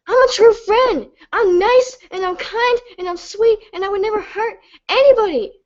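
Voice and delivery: high, breaking tearful voice; crying. Real, not acted. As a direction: voice cracks as tears take over. Crying, pitch rising high.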